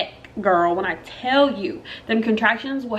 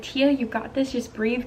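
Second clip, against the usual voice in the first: soft, self-soothing pep talk; trying to stay calm; 6 dB quieter than usual. Retold or imitated. Mother in labor telling herself to breathe, softly keeping calm. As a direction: coach yourself quietly through it. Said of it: "I'm trying to keep calm".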